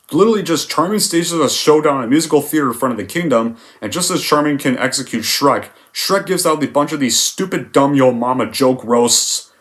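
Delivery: ordinary talk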